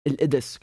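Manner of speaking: Al-Idis said with a glottal catch where the q was; Al-Idis, q turned into a stop; Syrian dialect, Qaf dropped. Shown as a demonstration. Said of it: "So Qaf becomes Uh".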